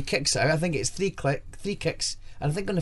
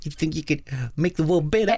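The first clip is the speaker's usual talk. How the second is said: put-on Southern American accent. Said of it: "that's my Southern American voice".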